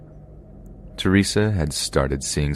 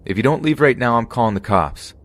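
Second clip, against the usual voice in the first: threatening shout; 7 semitones higher than usual. Retold or imitated. Threatening intruder through door.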